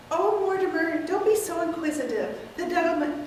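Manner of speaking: a sweet aunt brushing it off; elderly aunt. Acted. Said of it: "take several characters".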